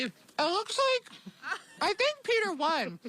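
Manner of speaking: talking with a mouthful of pie; cheeks stuffed full. Real, not acted. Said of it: "My mouth is full of pie".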